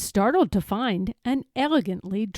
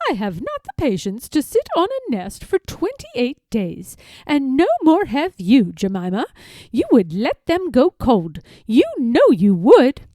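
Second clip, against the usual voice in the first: brisk, scolding duck voice, louder at the end; a sister-in-law telling Jemima off; 3 semitones higher, 5 dB louder than usual. Acted. Rebecca scolding Jemima about hatching, brisk and louder.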